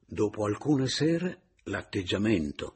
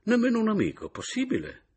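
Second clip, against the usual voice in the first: surprised disbelief; 5 dB louder than usual. A narrator's reading. Caporale incredulous.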